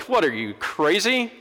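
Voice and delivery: high, exasperated mock protest; indignant refusal. Preacher voicing his own refusal, high and incredulous. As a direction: play yourself balking at God's request. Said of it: "I'd have been like".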